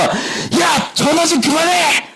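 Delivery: dad yelling at mom on the phone; angry shout. Retold or imitated. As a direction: snap at her to get off the phone. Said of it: "너무 화가 나니까 아버지가".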